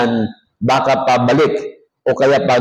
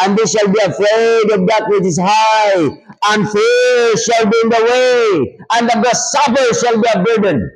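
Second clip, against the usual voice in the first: preaching shout; 6 semitones higher than usual. Acted. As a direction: thunder the verse out to the congregation. Preacher reading Ecclesiastes aloud.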